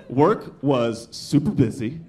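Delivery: slow, emphatic whiny account of a workday; complaining friend. Acted. Childless friend complaining to a tired parent, slow and emphatic. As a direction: draw out each word as a grievance.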